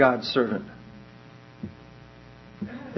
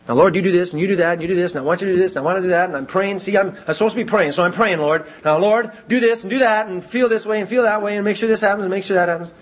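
bossy prayer; 3 semitones higher, faster than usual. Pretend. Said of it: "they feel like God is their servant".

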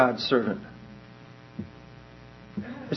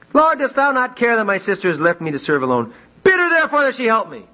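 Martha complaining; 6 semitones higher, faster than usual. Acted. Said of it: "Notice what she did".

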